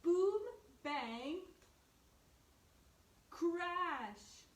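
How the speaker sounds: high and loud drum noises, punched out; loud crash sounds. A narrator's reading. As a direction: shout the drum noises to make the kids jump. Bear bashing the drums again.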